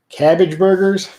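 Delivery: high, slow, loud disbelief; baffled and amused by a strange food; surprised. Real, not acted. Reading a viewer's odd comment.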